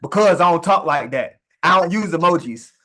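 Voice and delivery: bruised ego. Acted. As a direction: push back as if your ego were stung. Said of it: "That ego's gonna well up".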